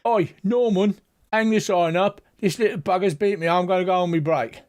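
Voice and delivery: grumbling Cyclops hollering for a colleague; Cyclops calling out. Acted. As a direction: call over to a workmate, quick at the end.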